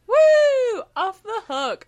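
high, loud whoop; mock relieved cheer. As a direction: celebrate a lucky escape, hammed up. Acts Dorian relieved, celebrating.

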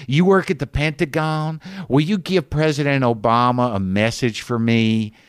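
mock childlike bid for everyone's attention; talking for an audience. Woman accosting a Pentagon worker on the train, showily. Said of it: "she's talking as if there's an audience listening to her".

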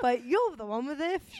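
hammed-up urchin turned therapist; mock British orphan. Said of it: "like a little orphan".

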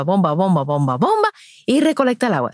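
bomba, bomba in a pumping beat; pumping rhythm demo. Shown as a demonstration. Comparing a baby to a hand water pump, rhythmic chant. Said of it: "sigues dándole a la bomba".

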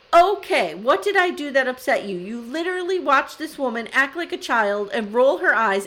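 indignant imitated rant, starting high and loud; anger rant. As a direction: launch into her outraged tirade. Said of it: "sophisticated words in an anger rant".

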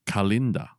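"Kalinda" said as kuh-LIN-da; correct pronunciation. Shown as a demonstration. Player revealing the real town name, "Kalinda" as kuh-LIN-da. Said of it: "it's actually pronounced".

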